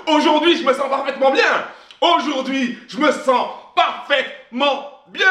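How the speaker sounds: an energetic, wholehearted cry of well-being; with feeling and energy. Shown as a demonstration. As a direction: proclaim it like you truly believe it. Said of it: "plus tu vas mettre de l'intonation, de, du, du sentiment, de l'énergie".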